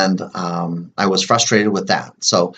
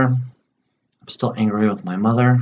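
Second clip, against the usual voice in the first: slow tapping phrase; slower than usual. Shown as a demonstration. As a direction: stretch each word out while tapping. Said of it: "do some more tapping on this".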